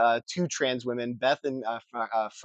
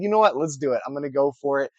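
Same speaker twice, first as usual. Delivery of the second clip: mock pep talk; faster than usual. Recalling his decision to read a huge pile of books, excited. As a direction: hype yourself up to go for it. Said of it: "and I said".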